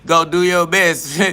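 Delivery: laughing it out, slow and mocking. Real, not acted. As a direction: chuckle through the words, drawn out. Repeats line with a laugh.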